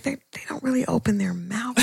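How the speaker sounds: half-whispered, as if not to be overheard; hushed confiding aside. Retold or imitated. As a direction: drop to a soft, near-whispered aside. Confiding her past puzzled reaction.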